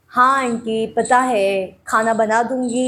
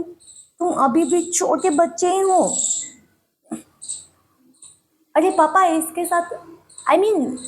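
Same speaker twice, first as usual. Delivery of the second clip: lightly voiced little girl, pleading and sulky; young girl; 4 semitones higher than usual. Girl begging papa and grandma for her mom, whiny and pleading. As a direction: play a small girl missing her mom, coaxing her papa.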